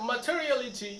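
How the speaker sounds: Materiality with a light English accent, t softened to ch. Shown as a demonstration. Teacher modelling the English way for students, light English accent. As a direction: roll the tongue like an Englishman. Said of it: "अंग्रेज सब ऐसे बोलता है".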